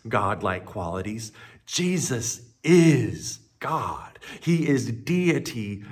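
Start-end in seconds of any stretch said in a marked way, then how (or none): 1.7-4.2 slow, weighty stress on is; emphatic declaration. Real, not acted. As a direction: land each word of Jesus is God slowly. Key claim, drawn out.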